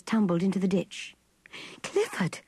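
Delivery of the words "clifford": sudden high cry of alarm. A narrator's reading. Connie seeing Clifford tumble into the ditch, crying out high. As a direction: cry out his name as the chair tips. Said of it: "cried Connie".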